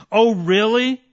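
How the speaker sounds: incredulous retort. Real, not acted. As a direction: throw the challenge back at the doubters. Scornful rhetorical retort to doubters.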